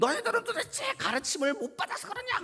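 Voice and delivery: very high, shrill-pitched, angry crab voice.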